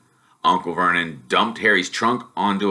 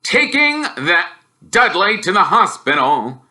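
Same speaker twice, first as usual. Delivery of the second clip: loud, higher gruff uncle voice; grumbling Uncle Vernon; growling uncle; 9 semitones higher, 5 dB louder than usual. Acted. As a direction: growl it out grumpily. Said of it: "growled Uncle Vernon".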